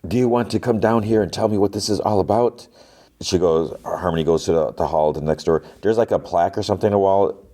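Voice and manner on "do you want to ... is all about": mock yell. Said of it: "the lady yells".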